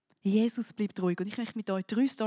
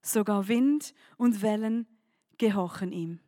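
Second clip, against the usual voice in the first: awed question; 3 semitones lower, slower than usual. Acted. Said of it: "fragten sich".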